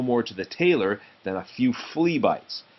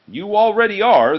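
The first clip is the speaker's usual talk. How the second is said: high, loud sharp warning; 10 semitones higher, 8 dB louder than usual. Acted. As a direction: snap it back much higher and louder. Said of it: "the tailor warned".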